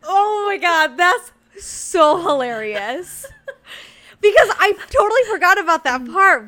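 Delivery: high, loud, laughing through words. Real, not acted. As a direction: crack up while speaking. Laughing hard.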